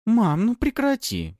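slow, high whiny protest; grumbling daughter. A narrator's reading. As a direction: grumble at mom. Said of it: "пробурчала".

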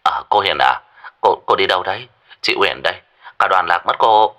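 woman on the other end of a phone line; thin phone-filtered voice, a little hesitant. Acted. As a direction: call checking on someone who is lost. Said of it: "người bên kia đã nói".

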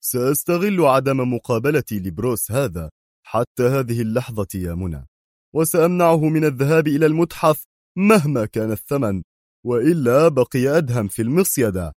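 firm vow, pitch climbing in the second half; resolute. Acted. Qadri vowing to Mona to stop Bruce, resolute. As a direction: declare the plan with determination. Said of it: "قائلا في حزم".

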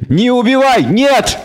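the devil trying to stop the killing; bleating devil. A narrator's reading. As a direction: bleat the word in alarm. Devil pleading.

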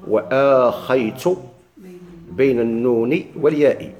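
slow, drawn-out verse recitation; measured didactic chant of a memorized line; reciting the author's verse. Acted. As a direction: recite with long held vowels and pauses. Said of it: "هذا قول المصنف".

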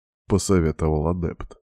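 plain reading voice

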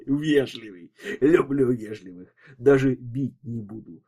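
lightly voiced swaggering thug; a hint of jeering menace; mocking thug. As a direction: toy with the victim, amused. Thug mocks the polite detective.

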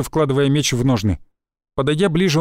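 ordinary delivery, nothing marked

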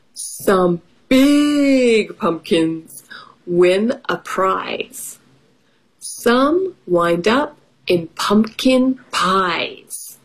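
slow rhyming picture book read; reading to children. Acted. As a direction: read the rhyme to little kids. Reads picture book aloud.

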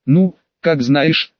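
slow, drawn-out mockery; mocking. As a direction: stretch it out with a sneer. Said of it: "в голосе послышалась издёвка".

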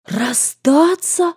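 high, drawn-out shocked gasp; a whole class of girls gasping in shock; gasped in dismay. A narrator's reading. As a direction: gasp the word out slowly in disbelief. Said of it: "ахнул весь класс в один голос".

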